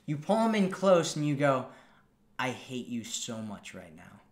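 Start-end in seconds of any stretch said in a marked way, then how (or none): 2.4-4.2 playful tease. Shown as a demonstration. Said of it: "here's what this looks like".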